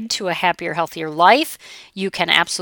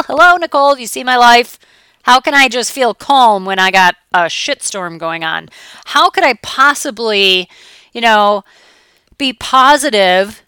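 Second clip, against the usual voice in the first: exasperated client; 3 semitones higher, 5 dB louder than usual. Retold or imitated.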